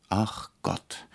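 a soft, weary groan of despair; a quiet moan of disbelief. A narrator's reading. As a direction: sigh it out, exasperated. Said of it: "stöhnte der Regisseur".

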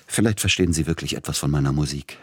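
rushed, fast delivery; hasty. Acted. Tschaikowski will das Gespräch hastig beenden. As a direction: hurry the words out. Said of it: "sagte er hastig".

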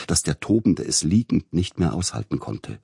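ordinary delivery

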